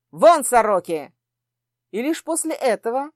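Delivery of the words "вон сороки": loud order. Acted. Prince bursts in ordering out.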